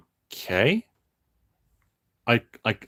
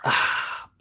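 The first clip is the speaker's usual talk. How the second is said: refreshed sigh after drinking. Real, not acted. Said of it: "I need water".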